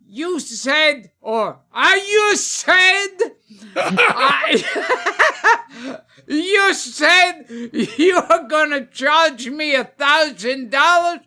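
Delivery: high-pitched, hammed-up outrage; indignant Italian guy. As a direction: build to an outraged Italian curse. Acted Italian patient confronts the doctor.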